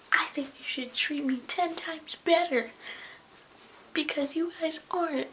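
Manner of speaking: mock a teacher telling off the class; imitating yelling teacher. Teacher berating a class over attitudes, mock yell. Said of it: "he literally yelled at us".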